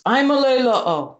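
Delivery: imitating a high, loud hail; called-out greeting. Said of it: "which is this greeting".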